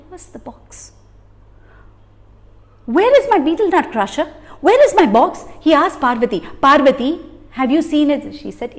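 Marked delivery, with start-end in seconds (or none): 2.8-8.3 calling out. Acted. Husband searching for box.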